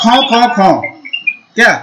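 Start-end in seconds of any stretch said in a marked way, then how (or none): 0.0-0.7 monkey call. Shown as a demonstration. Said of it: "वानर वदति".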